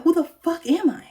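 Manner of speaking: hushed, breathless whisper of despair. Real, not acted. To herself, lost without her looks, in a whisper. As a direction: whisper it like the floor just dropped out.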